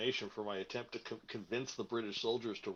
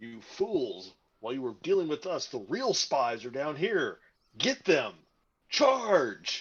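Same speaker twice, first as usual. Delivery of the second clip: very loud, booming, swooping, authoritative commander's shout; 4 semitones higher, 10 dB louder than usual. Playing a character bringing the doctor down the stairs, in a commanding commander voice. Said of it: "in my most commanding commander voice".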